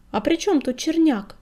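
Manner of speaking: lightly voiced old crone piping up from the crowd; creaky old woman. A narrator's reading. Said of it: "проскрипела из толпы старая кривуля". (скрипучий старушечий голос, слегка)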